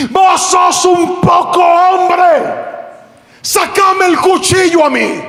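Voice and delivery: high, slow shouted taunt; angry challenge. Retold or imitated. Pastor daring the thief to pull the knife. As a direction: dare him, furious.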